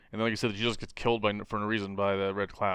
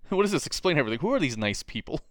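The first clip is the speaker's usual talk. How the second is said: mock dialogue; 5 semitones higher, 3 dB louder than usual. Acting Connor's lines.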